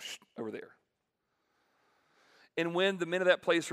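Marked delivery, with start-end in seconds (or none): 0.0-0.2 shushing sound. Retold or imitated. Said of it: "they went".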